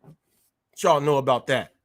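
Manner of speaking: low, slow wrestler taunt; slow low heel-wrestler challenge; Bad News Brown impression. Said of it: "give y'all a little bit of Bad News Brown".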